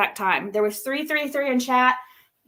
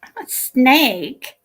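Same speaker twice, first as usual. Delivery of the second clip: imitating snake voice; 5 dB louder, slower than usual. Shown as a demonstration. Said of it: "Okay, one more".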